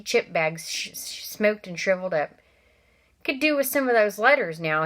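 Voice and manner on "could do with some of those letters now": cheerfully. Acted. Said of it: "he said cheerfully".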